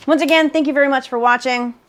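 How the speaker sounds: talking through a mouthful; mouth full. Real, not acted. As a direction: say it while still chewing. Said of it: "Talking with my mouth full".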